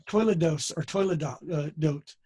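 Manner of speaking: "toiledos" said with an "oi", toy-leh-dose; Ashkenazi pronunciation. Shown as a demonstration. Repeating the Hebrew word for a student who asked, Ashkenazi style. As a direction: Ashkenazi "oi" in "toiledos", as his teacher taught. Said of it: "my Ashkenazi coming in there".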